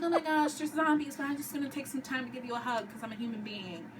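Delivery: mock sweet. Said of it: "she's all loving".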